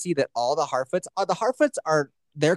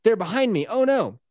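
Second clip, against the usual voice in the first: mock scared; 7 semitones higher than usual. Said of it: "she's like".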